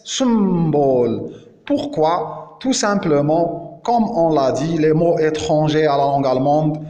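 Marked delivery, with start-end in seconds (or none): 0.0-1.3 slow "symbole" with a hissed s at the start; "symbole" with s, not z, and long m; demonstrated pronunciation. Shown as a demonstration. Teacher showing S stays sharp here, demonstrated pronunciation. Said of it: "on l'a prononcé S".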